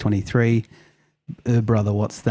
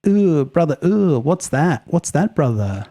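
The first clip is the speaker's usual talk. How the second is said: higher, drawn-out mock disgusted "ooh"; Hoblos; 6 semitones higher than usual. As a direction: imitate a viral lecturer's exclamations. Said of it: "Hoblos says".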